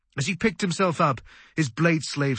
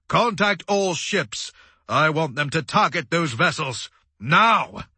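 raised voice, punching the last word; forceful command; 3 semitones higher, 3 dB louder than usual. A narrator's reading. Commander ordering all ships to target vessels, commanding. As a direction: order it firmly, ending in a shout.

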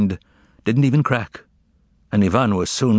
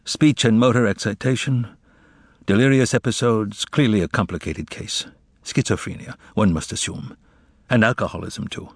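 listless. Acted. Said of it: "replied listlessly".

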